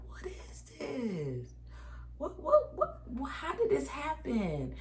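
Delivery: high, rising panicked what what; spluttering shock, voice jumping up; panicked disbelief. Retold or imitated. Mother in labor shocked at sudden nine centimeters, panicked.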